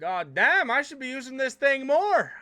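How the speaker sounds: loud, high Scottish streamer impression; Abtots Scottish accent. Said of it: "in his little Scottish accent".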